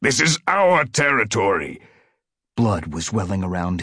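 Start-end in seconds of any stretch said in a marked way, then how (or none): 0.0-1.8 fierce territorial cry, pitched up; defiant warrior's raised-voice declaration; yowled back. A narrator's reading. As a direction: claim the ground defiantly. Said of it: "Tiger Claw yowled back".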